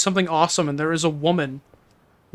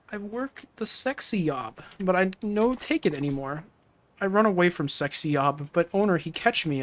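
put-on broken-English accent; 5 dB quieter than usual. Woman tells Kiryu she fled her job, mild mock accent. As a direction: tell the hard story in a hint of broken English. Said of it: "There is not a real person that talks like this".

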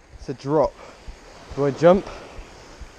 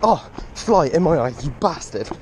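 fly in eye; 5 semitones higher, 4 dB louder than usual. Real, not acted. Fly hits his eye mid-run.

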